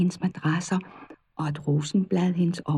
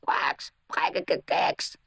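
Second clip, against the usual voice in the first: slow whispered croaks, kvaks rising; whispered toad croaking; 3 semitones lower, 4 dB quieter, slower than usual. Acted. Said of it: "Det var alt, hvad han kunne sige". (hviskende, langsom kvækken)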